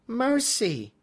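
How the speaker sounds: high, whining plea; pleading safe word. Acted. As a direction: beg for mercy like a child. Judge says safe word.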